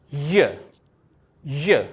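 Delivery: य said alone, clear and firm; answering with the letter sound. Shown as a demonstration. Teacher answering own question for pupils, clear. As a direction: give the answer य like a model for the class. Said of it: "तो ये क्या है".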